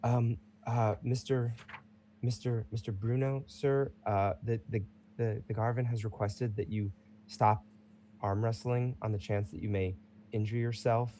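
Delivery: hesitant servant stammering; timid servant. Acted. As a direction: servant nervously interrupting the champion. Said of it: "walked up to him and says".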